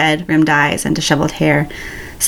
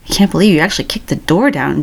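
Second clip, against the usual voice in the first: half-hearted mumble; faster than usual. A narrator's reading. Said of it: "Jin mumbles half-heartedly".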